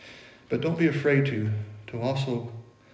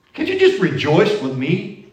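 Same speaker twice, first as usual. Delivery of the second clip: pleading; 4 semitones higher, 7 dB louder, slower than usual. Retold or imitated. Pleading with a friend.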